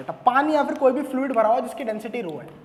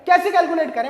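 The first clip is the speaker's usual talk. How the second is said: imitating students; 4 semitones higher, 7 dB louder than usual. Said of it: "कहते".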